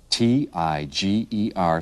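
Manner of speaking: "tiger" ending in a long growled "grrr"; playful growling tiger. Shown as a demonstration. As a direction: growl the end of the word "tiger". Animal name turned into a growl.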